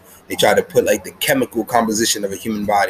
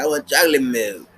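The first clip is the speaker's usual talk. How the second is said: put-on higher childish whine; whiny kid; 4 semitones higher than usual. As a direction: beg like a sulky little kid. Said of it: "they're like".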